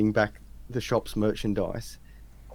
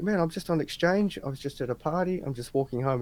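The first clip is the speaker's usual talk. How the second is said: higher-pitched, mildly panicked pleading; retold freaking out; 6 semitones higher than usual. Exchange student explains himself to cops, mildly freaked out. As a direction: plead your case as if retelling a flustered moment. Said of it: "I was freaking out".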